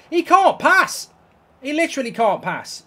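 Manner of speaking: very high, loud disbelieving rant; exasperated yell. Real, not acted. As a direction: shout your disbelief at the bad passing. Gamer raging at Wan-Bissaka.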